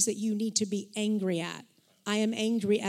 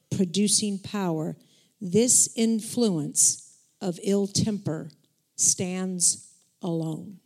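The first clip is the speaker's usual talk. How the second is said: solemn scripture reading; slower than usual. Acted. Reading a passage on ill temper to the church, slow and solemn. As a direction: lay each phrase down slowly and gravely. Reads passage slowly, with weight.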